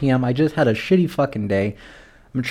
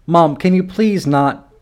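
slow, higher plea to mom; exasperated plea; 5 semitones higher, slower than usual. Acted. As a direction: beg her wearily, stretching the words. Pleading with mother to stop.

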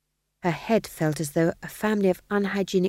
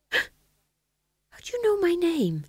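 gasp, then very high, slow question; startled, barely believing it; shocked gasp; 11 semitones higher, much slower than usual. Acted. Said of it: "sharp intake of breath".

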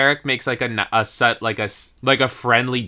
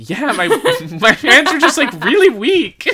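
talking through giggles, higher; laughing through words; 11 semitones higher, 3 dB louder than usual. Real, not acted. Laughing about her weak grip.

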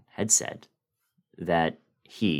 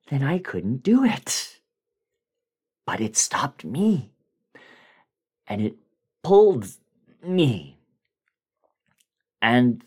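whispered, rising to high strained cries; a terrified man close to sobbing; breaking down; 3 semitones higher than usual. Acted. Bill breaking down to the narrator, whispering then crying out. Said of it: "he started breaking down. He started weeping".

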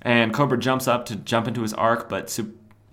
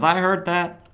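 retold call-out; 8 semitones higher, 4 dB louder than usual. Ambush Bug calls out in passing.

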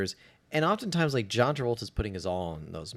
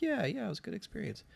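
high fast mock agreement; 10 semitones higher, 10 dB quieter, faster than usual. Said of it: "I'm like".

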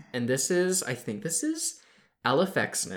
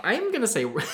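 laughing; 9 semitones higher, much faster than usual. Real, not acted. Laughing at failed pronunciation.

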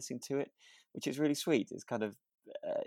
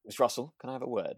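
teachery; 2 semitones higher than usual. Retold or imitated. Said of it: "It's quite a teachery sort of thing".

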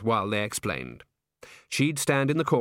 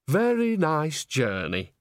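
slow, cheery, higher granny voice; a pleased old countrywoman being gracious; chatty old witch; 5 semitones higher, slower than usual. Acted. Nanny Ogg tells the agent, slow and cheery.

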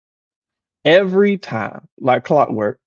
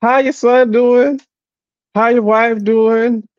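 higher, slow, sweet pleasantries; drawn-out polite questions, pitched up; imitating his mama; 5 semitones higher, slower than usual. Son imitating his mama asking after family, higher and slow.

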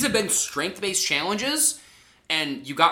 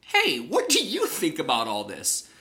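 Jeff. Retold or imitated. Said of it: "Jeff kinda goes to her and's like".

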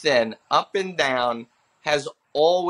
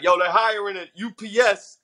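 higher-pitched heckler call; front-row heckler; 4 semitones higher than usual. Retold or imitated. Dude in the front row to a bombing comic, heckling. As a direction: pipe up as the mouthy guy in the crowd. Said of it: "there was a dude in the front row".

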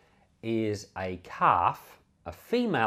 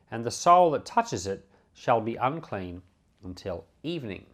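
steady, measured reading of the law passage; scripture reading; 3 semitones higher than usual. Acted. Preacher reading Numbers aloud to the congregation, measured scripture reading. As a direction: read it out like a formal Bible lesson.

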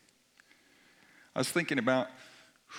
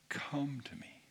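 whispered invitation, much softer; tender whisper; 9 dB quieter than usual. Acted. Echoing Jesus' invitation softly.

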